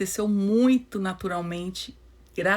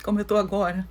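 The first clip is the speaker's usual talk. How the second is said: holding back sobs. Real, not acted. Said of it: "eu tô emocionada".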